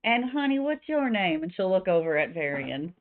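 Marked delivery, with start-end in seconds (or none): 0.0-1.4 Southern barkeep turning on the charm; Louisa. Acted. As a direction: call over sweetly with a Southern accent. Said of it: "I don't know why she's slightly Southern".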